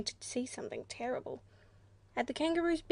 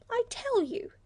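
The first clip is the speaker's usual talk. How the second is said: much higher, irritable snap; a cross little creature, pitched up high; high-pitched irritable platypus; 11 semitones higher, 4 dB louder than usual. A narrator's reading. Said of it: "in a high-pitched and irritable voice".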